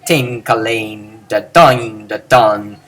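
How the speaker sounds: low, chanted baritone syllables; nada bariton rendah. Shown as a demonstration. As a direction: intone each syllable low and even. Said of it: "saying all these in a low baritone voice".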